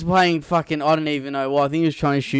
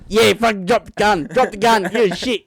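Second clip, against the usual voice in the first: higher, louder mock heckling; acted cocky taunt; 6 semitones higher, 4 dB louder than usual. Boy backing up his dad against the gunman, mock cocky heckle. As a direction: egg him on like a brave little kid.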